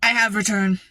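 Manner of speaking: imitating a customer's Russian accent; lightly mimicked Russian accent; thick Russian accent. Upset customer telling the clerk she has a return, Russian accent. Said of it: "She had a very thick Russian accent".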